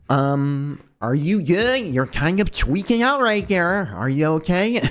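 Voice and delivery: a hint of a worried maid voice; lightly voiced Hisui.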